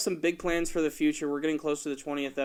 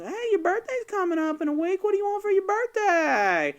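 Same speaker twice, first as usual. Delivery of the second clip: much higher Southern mom voice, cheery; Southern accent; 6 dB louder than usual. Retold or imitated. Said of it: "my mom's ridiculous Southern accent".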